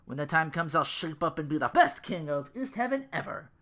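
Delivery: loud, high boastful rant; near yell. Acted. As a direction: shout it in her face. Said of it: "Ru practically yelled at her face".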